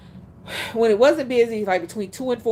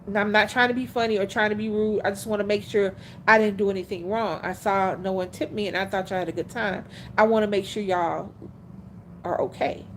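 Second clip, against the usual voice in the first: nice and polite; 2 semitones lower, 4 dB quieter than usual. Retold or imitated. Server checking on customers who didn't tip, politely sincere. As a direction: ask gently, meaning no offence. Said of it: "He said it very nicely, very politely".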